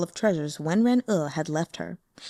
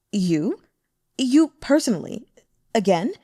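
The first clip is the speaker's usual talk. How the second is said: flirtatious demon woman; 3 semitones higher, 4 dB louder than usual. A narrator's reading. Demon sect woman lecturing the venerable about men, teasing. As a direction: tease him knowingly, amused and worldly.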